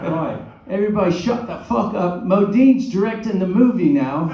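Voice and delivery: loud, high hammed-up British accent; bad Cockney, hollering in mock outrage; Dick Van Dyke accent. Director mocking an actor who suggests a pose, hammed-up Cockney accent. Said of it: "I'm gonna do a Dick Van Dyke accent now".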